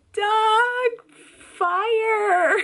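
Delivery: high, loud frantic scream; screaming fire. Retold or imitated. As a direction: shriek the alarm to wake the house. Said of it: "annoyed that I'm screaming".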